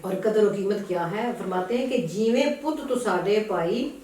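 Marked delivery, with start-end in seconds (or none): 2.1-4.0 measured, emphatic poem reading; verse recitation. Acted. Reciter presenting a poet's couplet to a listener, verse recitation. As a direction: declaim the couplet line by line.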